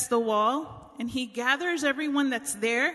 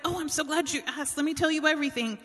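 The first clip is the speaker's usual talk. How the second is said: higher, fast and eager, a light mock of oversharing; 5 semitones higher, much faster than usual. Nehemiah answering an old friend at the store, higher and fast. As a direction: rattle it off like you've waited all day to be asked. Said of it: "And he's like".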